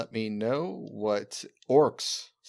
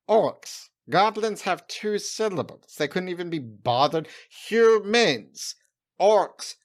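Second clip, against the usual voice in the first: indignant rant; 5 semitones higher, slower than usual. Pretend. Goblin ranting at the orcs' lazy name, high and indignant. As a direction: spit out each race name in outrage.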